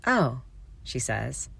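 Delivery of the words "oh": breathless. Acted. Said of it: "a little breathlessly".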